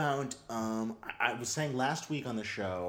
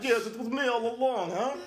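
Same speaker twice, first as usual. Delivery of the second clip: higher gloating villain reveal; villain unmasked; 11 semitones higher, 5 dB louder than usual. Retold or imitated. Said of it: "it's like".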